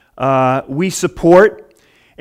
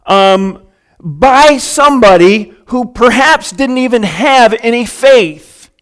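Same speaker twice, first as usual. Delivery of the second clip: raised, deliberate sermon delivery; emphatic preaching; 4 semitones higher, 5 dB louder than usual. Real, not acted. Preacher teaching the congregation about prayer and miracles, emphatic. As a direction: drive the teaching home, leaning on key words.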